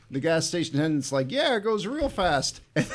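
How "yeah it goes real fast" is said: laughing. Retold or imitated. Gas attendant quoted, laughing.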